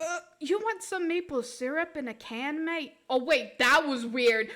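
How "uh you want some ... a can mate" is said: put-on muddled Canadian-Australian hybrid accent. Offering maple syrup, crossed Canadian-Australian accent. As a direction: slip from Canadian into Aussie. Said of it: "did I just cross Canadian and Australian".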